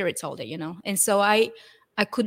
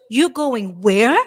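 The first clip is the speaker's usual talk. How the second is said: surprised cabbie; 7 dB louder, slower than usual. Retold or imitated. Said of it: "And he goes".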